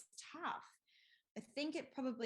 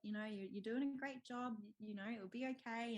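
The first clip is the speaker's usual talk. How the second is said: higher-pitched gentle coaxing; lightly imitating a comforting husband; mock reassurance; 3 semitones higher than usual. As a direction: soothe someone who is upset, pitched up. Husband reassuring her as she cries.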